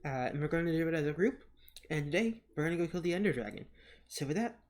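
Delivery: talking around gauze after a tooth pulled; gauze in mouth. Real, not acted. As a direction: speak with gauze packed in your cheek. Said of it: "so today I have some gauze in my mouth, so my voice probably sounds a little odd".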